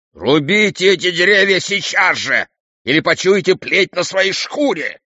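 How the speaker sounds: high-pitched, menacing royal command; barked threat. A narrator's reading. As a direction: order them sharply, threatening the whip. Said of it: "рявкнул он".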